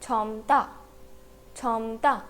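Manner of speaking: "छमता" as chham-ta, only M before the ta; pronunciation demo. Shown as a demonstration. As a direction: model "छमता" carefully in two syllables. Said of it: "तो word का pronunciation क्या होगा?". ("छमता" का उच्चारण छम-ता, म साफ़)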